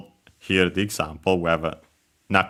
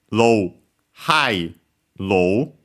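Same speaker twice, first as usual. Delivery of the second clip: pitch pattern read out; much slower than usual. Shown as a demonstration. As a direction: voice the tones as you name them. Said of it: "so yeah".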